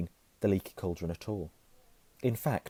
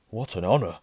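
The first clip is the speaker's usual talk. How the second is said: overjoyed; 6 dB louder than usual. Acted. Barman overjoyed.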